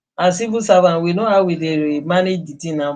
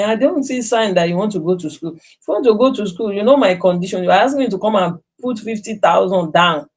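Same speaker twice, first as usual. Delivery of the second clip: scolding mother; 3 semitones higher than usual. Retold or imitated. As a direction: tell him off, then lay out the terms. Mother scolding son, retold.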